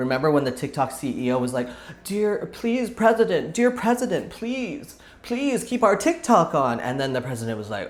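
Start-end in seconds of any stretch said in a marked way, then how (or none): 2.0-6.8 high, pleading mock voice, like a bad impression. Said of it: "It's a bad impression".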